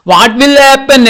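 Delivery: high, slow storytime wonder. Shown as a demonstration. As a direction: lift it up like a curious storyteller.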